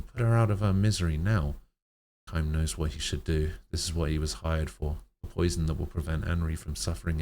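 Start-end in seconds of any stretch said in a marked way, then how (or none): 0.0-1.6 angry demand. Acted.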